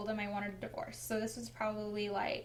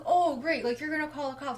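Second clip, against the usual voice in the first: mock exasperation, louder at the start; retold freak-out; 3 semitones higher, 4 dB louder, faster than usual. Husband reacting to threat of police, mock exasperated. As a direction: mimic his irritated comeback, lightly acted. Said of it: "He freaks out even more".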